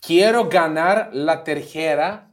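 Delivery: slow, stretched Spanish in a put-on Argentine accent. Host quoting Argentine fans' chant, Argentine accent. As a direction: proclaim it slowly with an Argentine accent. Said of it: "Τα λέω με άλλη αργεντίνικη προφορά".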